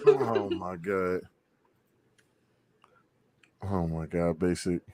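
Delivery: slow, quiet, breathless laughing; weak from laughing. Real, not acted. Reacting to Basic's crying, quiet laughing wheeze.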